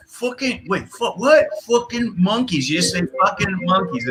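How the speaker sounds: put-on high, slow, baffled Birmingham accent; fumbling rock singer. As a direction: play the rock singer stumbling over the line. The rock singer fumbling his line.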